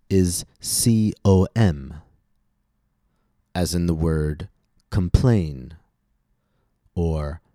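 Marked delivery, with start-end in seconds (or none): 4.9-5.7 "complain" with weight on the second syllable; light prefix, strong root in "complain"; stress on the root. Shown as a demonstration. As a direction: model "complain", stressed at the back. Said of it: "we stress the root".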